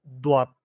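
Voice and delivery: দোয়াত with a firm, hard d; দোয়াত, শক্ত উচ্চারণে; Arabic letter dal. Shown as a demonstration. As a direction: say দোয়াত with a strong heavy d sound. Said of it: "দোয়াত একটু শক্ত হয়".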